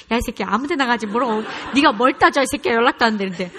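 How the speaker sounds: loud cursing scold; old angry mother. Pretend. The mother she once was, yelling at her son. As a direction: tear into him like she used to. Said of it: "옛날 같으면 제가 뭐라 그랬겠어요?".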